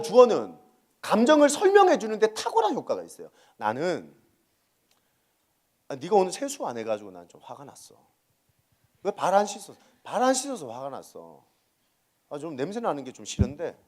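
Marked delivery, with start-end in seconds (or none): 3.6-13.8 softer, explaining the feeling calmly; a parent calmly explaining annoyance to a child; calm explanation. Shown as a demonstration. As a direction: gently spell out why you're upset. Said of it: "설명을 해주는 거예요".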